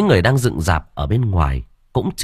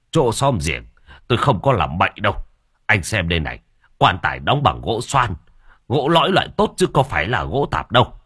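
reassuring. Acted. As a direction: soothe him, then insist on the wood. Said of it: "trấn an".

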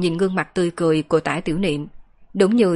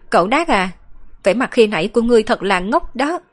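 higher-pitched playful teasing; teasing girl; 4 semitones higher than usual. Acted. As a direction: lightly tease him in a girl's voice. Girl teasing boy while hugging his head. (giọng cô gái cao, trêu chọc)

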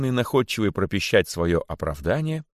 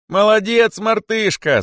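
very high, loud cheer; cheering crowd; 13 semitones higher, 7 dB louder, slower than usual. A narrator's reading. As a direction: shout praise as a crowd. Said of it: "закричали кролики". (восторженный крик толпы)

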